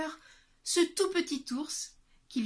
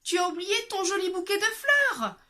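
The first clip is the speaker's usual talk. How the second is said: higher, louder bear call; middle bear calling; 10 semitones higher, 7 dB louder than usual. Acted. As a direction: call out to the girl. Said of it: "lui cria le moyen ours de sa moyenne voix".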